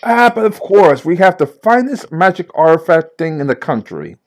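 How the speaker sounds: a hint of a New York secretary; Janine from Ghostbusters. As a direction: play the bored receptionist. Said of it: "picture Janine from Ghostbusters".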